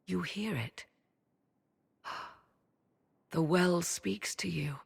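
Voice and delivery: slow hushed whisper; whispering in awe that the well speaks; awed whisper. Acted. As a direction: breathe it like a secret. Awed remark about the well.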